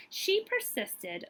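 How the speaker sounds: slow, high, drawn-out refrain; emphatic refrain. A narrator's reading. Reading Caroline's story to kids, slow emphatic refrain. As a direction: lift and stretch the refrain proudly.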